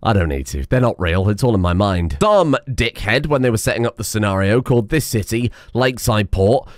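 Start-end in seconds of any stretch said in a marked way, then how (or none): 0.0-2.2 a lightly lowered, dismissive self-quote; mildly deadpan self-talk; dismissive inner voice. Retold or imitated. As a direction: brush it off in a low, casual voice. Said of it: "but then I was like".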